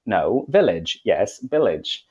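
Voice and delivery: "village" firm with V, then echoed with B; V and B confusion. Acted. Teacher and student exchange over V and B, stubborn back-and-forth. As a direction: correct "village", then echo it wrongly as "billage". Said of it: "student simply isn't hearing that you're making a distinction".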